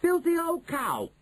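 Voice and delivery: high, drawn-out outraged insult; indignant boy's shout; angry shout. A narrator's reading. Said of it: "he shouted".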